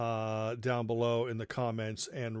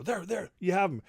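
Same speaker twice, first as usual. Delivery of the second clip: dad handing over; 6 semitones higher than usual. Retold or imitated. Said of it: "then he'd go".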